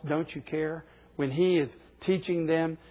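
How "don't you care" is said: quoted softly. Retold or imitated. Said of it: "Saying that to Jesus Christ".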